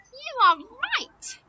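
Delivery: high, slow, delighted confirmation; excited praise. Pretend. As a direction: draw out the praise for a small child. Praising children for right answer.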